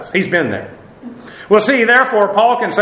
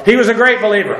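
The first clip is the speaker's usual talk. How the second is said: a lightly voiced fib with a tell, laugh close behind; giving away a lie; 3 semitones higher, faster than usual. Preacher jokes about lying at funerals, lightly voiced telltale fib. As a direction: say it like a bad bluffer who gives himself away. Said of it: "I'm lying".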